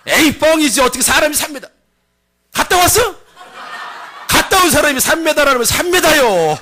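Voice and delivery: high, heated Chungcheong argument; Chungcheong dialect. Acted. Doubter and spy argue over giants, heated Chungcheong accent. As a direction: squabble loudly in Chungcheong speech. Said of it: "충청도 버전으로".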